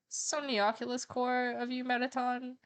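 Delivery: high, slow fangirl gush. Real, not acted. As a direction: swoon it out. Gushing over her ship.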